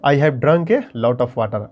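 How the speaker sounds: very slow, clear dictation of the whole sentence; slow model reading. Shown as a demonstration. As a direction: read it out word by word for students. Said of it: "model sentence".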